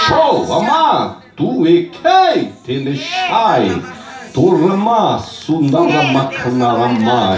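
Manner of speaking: slow, chanted tongues; speaking in tongues. Real, not acted. Preacher returning to tongues over music, slow and fervent. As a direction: let the tongues flow slowly.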